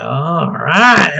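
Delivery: lightly voiced gloating villain; a hint of comic-book villain; Joker-esque villain. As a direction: imitate a Joker-like menace, drawn out. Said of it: "very Joker-esque".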